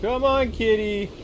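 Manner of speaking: calling a cat. Real, not acted. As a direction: call the cat in urgently. Calling louder to the tiger.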